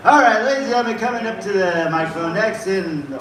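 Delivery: open-mic announcer, building to a shouted name; live host bringing up a comic; MC introduction. Real, not acted.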